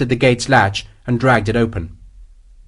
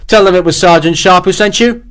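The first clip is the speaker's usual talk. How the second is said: vengeful shouting; 7 semitones higher, 6 dB louder than usual. Acted. Sharp's final vengeful threat.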